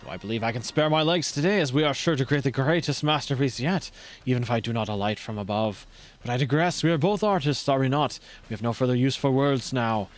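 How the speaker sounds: put-on light French accent with measured, formal phrasing. Streamer voicing rival before an artistic battle, light French accent. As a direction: play a theatrical artist with slight French accent. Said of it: "giving him a French accent".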